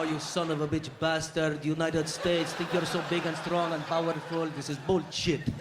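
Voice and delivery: put-on cousin cussing in an Arab accent, slow and grim; Arab accent, brooding curse. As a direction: rant against the United States in an Arab accent. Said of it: "Arabs love to cuss in English".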